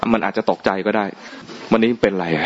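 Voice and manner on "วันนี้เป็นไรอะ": slow, overly polite asking; slow polite question. Retold or imitated. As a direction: ask gently as if to a stranger. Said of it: "ถ้าไม่พูดแบบนี้นะ". (ถามสุภาพช้าๆ)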